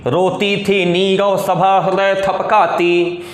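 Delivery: steady, rhythmic chant of a poem; verse recitation. Acted. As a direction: intone each couplet evenly, holding the line endings. Recites a long passage of verse. (लयबद्ध, सधे सुर में कविता-पाठ)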